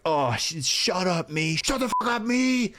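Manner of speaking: high-pitched exasperated mock yell; mock self-disgust. Hearing own voice on playback, acted exasperation. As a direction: squeal at yourself to shut up, hammed-up. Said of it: "you hear that and you're like".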